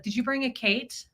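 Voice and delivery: "Kate" said for cake, ending in T; child's mispronunciation. Retold or imitated. Imitating the boy asking about food, "Kate" with a final T. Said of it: "buckwheat thing that he does with certain words".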